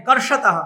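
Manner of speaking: कर्षतः with retroflex ष, syllables spelled out; careful Sanskrit word. Shown as a demonstration. Teacher models कर्षतः for students, carefully. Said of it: "उच्चारण सीखिए".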